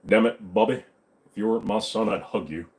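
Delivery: lightly voiced cartoon dad impression; King of the Hill. Shown as a demonstration. Cartoon father scolding a son, lightly put on. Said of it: "I don't do a good King of the Hill".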